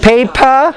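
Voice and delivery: "Paper" with a strong puff of air on the p; aspirated paper. Shown as a demonstration. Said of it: "we have three words".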